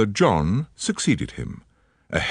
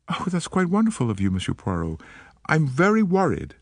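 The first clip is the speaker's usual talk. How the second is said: put-on light American accent, eager and polite; an American woman, gently worried; faint American accent; 8 semitones higher than usual. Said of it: "She spoke with a faint transatlantic accent".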